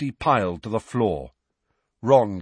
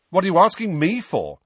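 higher, louder indignant retort; testy, raised-voice comeback; sharp retort; 8 semitones higher, 5 dB louder than usual. A narrator's reading. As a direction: throw the question back crossly. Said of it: "Harry retorted".

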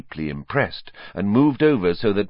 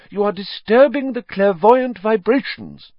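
high, louder airy scold; mystic rebuke; 14 semitones higher, 6 dB louder than usual. Acted. Trelawney rebuking pupils, high lofty scold. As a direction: scold them like an offended oracle.

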